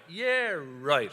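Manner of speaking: drawn-out, doubting Dublin "yeah, right"; disbelief. Shown as a demonstration. Teaching Dublin slang to his co-host, mock disbelief. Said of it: "I don't believe you".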